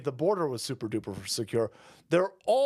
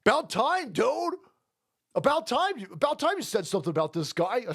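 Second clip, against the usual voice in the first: mock chat voice; 5 semitones higher than usual. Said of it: "the chat sitting there going".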